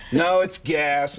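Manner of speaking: GAS drawn out slowly; slow correction, leaning on Gas; correcting teacher on GAS. Retold or imitated. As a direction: stretch out the word Gas. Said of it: "I'd have to go".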